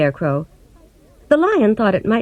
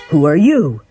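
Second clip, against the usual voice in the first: cried out; 3 semitones lower, 4 dB louder than usual. A narrator's reading. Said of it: "The Tin Woodman cried out".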